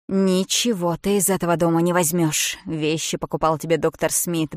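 loud, scornful rage; furious tirade. Acted. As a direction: spit out her contempt. Bridget furiously expels her. (яростная тирада, громко и презрительно)

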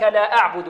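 أعبد with a light hamza and ع; unthickened أعبد; correct light pron. Shown as a demonstration. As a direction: keep the opening a of أعبد thin. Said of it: "لا نقول لا أعبد".

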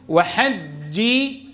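slow وحجي, firm ج with lips unrounded; unrounded jeem. Shown as a demonstration. Teacher models it for the class, slow firm ج in وحجي. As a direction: hold the doubled ج of وحجي without pursing the lips. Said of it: "لا ضرورة لضم الشفتين".

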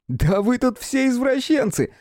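high, slow teasing laughter; chuckling exclaim. Acted. Friend joking about the bruises, laughing. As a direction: tease him with a laugh. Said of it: "хохотнул Рай".

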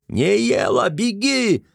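high, urgent shout. A narrator's reading. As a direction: yell a warning to run. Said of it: "крикнул".

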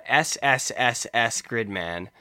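slow, spelled-out letters; counting out slowly. Shown as a demonstration. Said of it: "let me count these out".

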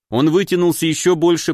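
ordinary delivery, nothing marked

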